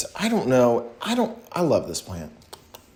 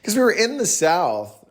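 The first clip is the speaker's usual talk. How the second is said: put-on playful Southern accent; 3 semitones higher than usual. Vlogger recalling talking this way with a friend, Southern accent. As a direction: lean into a pretend Southern twang. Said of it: "in a Southern accent".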